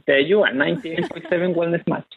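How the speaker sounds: Chilean accent. Real, not acted. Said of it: "he has a delightfully thick Chilean accent".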